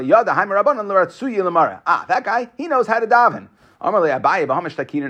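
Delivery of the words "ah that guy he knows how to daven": higher, mild exclamation of approval; an impressed aside about someone else; admiring. Acted. Teacher voices Rabba approving a man's prayer, admiring.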